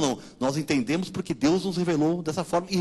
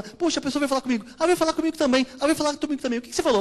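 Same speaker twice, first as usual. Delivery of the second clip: higher, lightly surprised retelling of pastors comparing notes; surprised pastors chatting; 8 semitones higher, faster than usual. Retold or imitated. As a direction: pastors asking each other, amused and surprised. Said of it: "e depois lá a gente fala".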